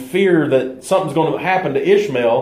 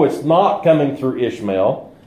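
firm weight on NOT; stress on NOT. Shown as a demonstration. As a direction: lean on "not" as a correction. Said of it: "if we put the emphasis on the words".

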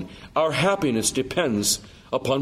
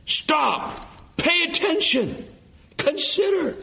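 higher, sharp calls to attention; urgent command; 14 semitones higher, slower than usual. Real, not acted. The preacher urges his congregation to stop and think, urgent and high. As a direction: snap them awake, word by word.

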